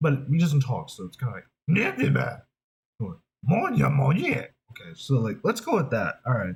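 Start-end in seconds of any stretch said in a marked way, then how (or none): 1.7-4.5 very slow, drawn-out put-on Australian accent. Voicing an animal-like character who doesn't talk, Australian animal character voice. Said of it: "So we gotta go with an Australian voice".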